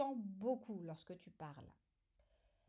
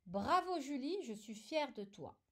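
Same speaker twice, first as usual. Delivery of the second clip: exclaiming; 2 semitones higher than usual. Shown as a demonstration. Correction of exclamative example.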